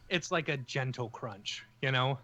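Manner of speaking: panting after running upstairs; breathless from the stairs; out of breath. Real, not acted. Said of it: "I'm out of breath from running upstairs".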